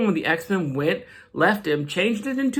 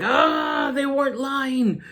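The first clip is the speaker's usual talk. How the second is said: higher, half-shouted villain line; Juggernaut growl; 4 semitones higher than usual. Retold or imitated. Juggernaut at Charles's grave, mock-shouting his vow. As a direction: bark it as a brute. Juggernaut voiced vowing revenge.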